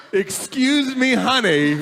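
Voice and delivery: slow, lightly put-on Southern lady voice; a hint of a Southern belle, drawn out; mild Southern accent retelling the lady hand. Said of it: "In a southern accent".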